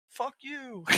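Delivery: high, yelled insult like a street passerby; high hammed-up yell of a random pedestrian; mock angry yell. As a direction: bark it at a passing car, hammed-up. GTA passerby yelling at driver.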